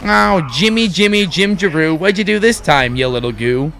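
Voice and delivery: secretary voice. Acted. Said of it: "she's like".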